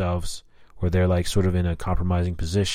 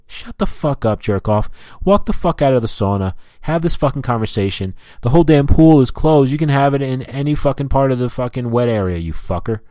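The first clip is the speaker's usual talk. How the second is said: higher-pitched, heated telling-off; angry rant; 6 semitones higher, 3 dB louder than usual. Acted. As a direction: order the jerk out, fed up. Ranting at the phone talker.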